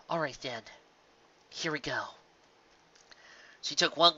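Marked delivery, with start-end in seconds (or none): 0.1-2.1 resigned. Acted. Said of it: "Twilight sighed".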